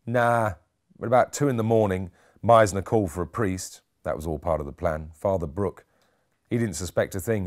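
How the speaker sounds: a lightly voiced stubborn nurse, casual; nurse Summers. Nurse telling Gaddis about the night, lightly voiced and offhand. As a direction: give him a touch of petulant offhandedness.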